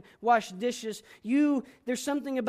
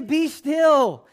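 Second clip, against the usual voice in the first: put-on loud, high scolding of a child; slow loud command to a son in a tantrum; exasperated dad telling his son to calm down; scolding father; 6 semitones higher, 6 dB louder, much slower than usual. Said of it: "But I just say".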